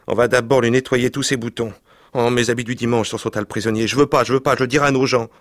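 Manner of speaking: put-on excited boys. Boys' sentence and the prisoner's protest.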